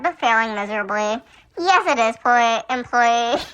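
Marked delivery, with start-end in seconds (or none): 1.6-3.4 laughing. Real, not acted. Laughing while reading dialogue.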